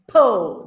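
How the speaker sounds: PO isolated and punched loud; stressed syllable. Shown as a demonstration. Teacher isolates the stressed syllable for students, punching po. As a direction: hit po alone with full weight. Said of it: "the first syllable is stressed".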